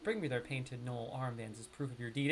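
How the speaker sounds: careful neutral reading, New York accent smoothed out; professional accent. Shown as a demonstration. Streamer reading quest text to viewers, in a careful professional accent. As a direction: streamer switches back to his polished quest-reading voice for chat. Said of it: "But I'm trying to speak professionally".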